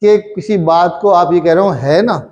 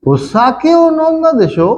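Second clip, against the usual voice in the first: 1 mock accusing friend; 9 semitones higher, slower than usual. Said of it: "तो आप कहें".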